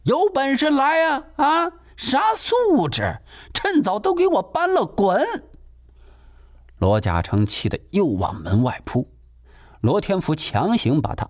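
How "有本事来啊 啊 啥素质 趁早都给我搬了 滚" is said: high shrill yelling from outside; shouting. Acted. Landlady yelling at the family from outside. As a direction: yell after them to get out. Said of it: "还在房外喊呢".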